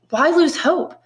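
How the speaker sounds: high, eager plea against despair; a young prisoner urging the old priest, eager and high. Acted. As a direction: push him not to give up.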